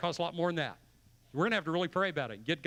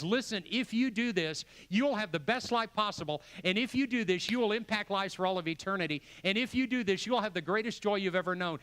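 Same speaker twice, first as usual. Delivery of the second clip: voicing God; 4 semitones higher than usual. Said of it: "He lays it out and says".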